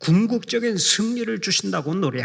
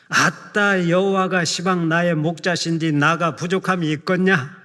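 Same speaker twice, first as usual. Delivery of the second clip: Jeolla dialect. Acted. Preacher treats the congregation to the Jeolla version, in Jeolla dialect with gusto. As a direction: belt it out like a jovial Jeolla elder. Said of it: "전라도 버전이 최고라서 몇 대목만 소개하겠습니다".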